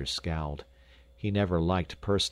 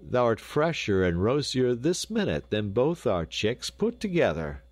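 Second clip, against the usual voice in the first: lightly voiced husband, higher and emphatic; hasty Raff; 5 semitones higher than usual. A narrator's reading. Raff praising his wife, hearty and emphatic. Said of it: "spoke up Raff hastily".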